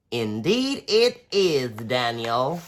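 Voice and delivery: slow, knowing cricket; gentle cricket. Acted. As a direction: answer sagely like a cricket. Cricket character voice.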